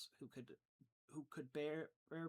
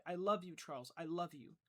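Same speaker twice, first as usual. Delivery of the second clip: cried out; 6 dB louder than usual. Acted. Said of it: "she cried".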